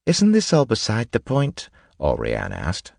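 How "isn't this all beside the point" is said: high-pitched, impatient woman's voice; impatient young noblewoman. Acted. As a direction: challenge them in a voice pitched well up. Alrian impatiently challenges the group.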